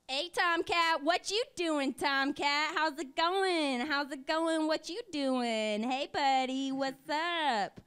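lightly voiced catcalling, drawn out; mock catcaller. Harassing the men in the crowd as a mock catcaller. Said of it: "I'm gonna harass some people".

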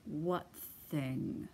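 grumpy bear. Acted.

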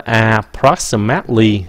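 approximately with -mately reduced to "mut-lee"; correct pronunciation. Shown as a demonstration. Teacher shows learners the word, reduced ending. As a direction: say approximately with a weak, short -mate-. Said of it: "không phải là mately nữa".

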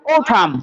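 ওঠাম with au as a round o; ওঠাম with an aspirated th-like t; correct pronunciation. Shown as a demonstration. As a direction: open ওঠাম on o and end on m, silent n. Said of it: "এ ইউ উচ্চারণ হবে সবসময় ও".

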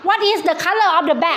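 very slow, each word spelt out clearly; slow teacher English. Shown as a demonstration. Teacher to young pupils, very slow clear English. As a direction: drag the question out word by word for kids. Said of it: "teacher quizzing young pupils".

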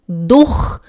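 "durch" with a vowel and a hard ch at the back; regional variant. Shown as a demonstration. Teacher shows students one native variant, "durch" as "dukh". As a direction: say "durch" as "dukh", ch scraped in the throat. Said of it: "há nativos que falam durch".

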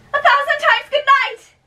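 high, loud cry of goodnight; loud farewell. Acted. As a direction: call it out across the garden. Calling out farewell.

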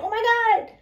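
high, breathless "oh my God"; gushing excitement. Retold or imitated. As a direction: mimic someone overexcited. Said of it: "excitement is like".

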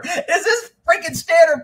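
high slow mock outrage; incredulous complaint. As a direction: demand it of the owner half-laughing. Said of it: "goes to the owner".

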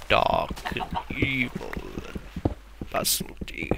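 slow, dark breathy whisper; ominous whisper. Pretend. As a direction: whisper it like something sinister. Describing ominous dark stone block.

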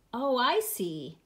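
slow, understanding rabbit; kindly. Acted. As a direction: draw it out with gentle sympathy. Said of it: "said the rabbit kindly".

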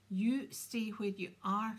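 loud, slow, angry command; snarled order. A narrator's reading. Angry mother stopping her sons leaving, snarling. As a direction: snarl it out, weighting each word. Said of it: "snarled Missus Weasley".

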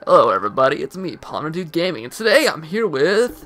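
radio host voice. Acted. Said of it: "I got a radio show host voice going".

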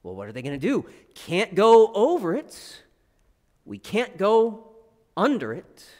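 playful rhyme reading; storytelling voice. Retold or imitated. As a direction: read it like to children. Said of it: "it goes a little something like this".

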